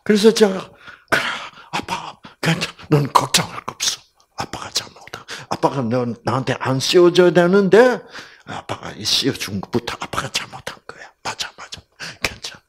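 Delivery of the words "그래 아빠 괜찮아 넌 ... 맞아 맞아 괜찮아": comforting whisper. Retold or imitated. Father comforts crying daughter.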